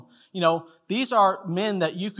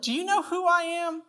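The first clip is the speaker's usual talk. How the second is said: indignant big shot; 12 semitones higher than usual. Retold or imitated. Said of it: "He's, he's like".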